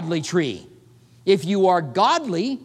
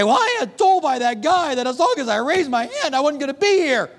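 voice of a lost soul in hell; 5 semitones higher than usual. Retold or imitated. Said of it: "And say".

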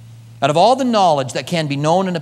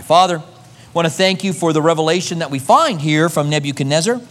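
closing prayer. Acted. Pastor praying over his congregation, earnest and humble.

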